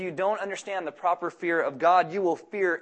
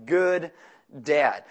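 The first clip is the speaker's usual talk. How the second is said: "good" emphasized, "dad" dropping lower; stress on "good"; 3 semitones lower than usual. Real, not acted. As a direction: set "good" apart, then pause before a low "dad". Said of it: "I emphasize the word good".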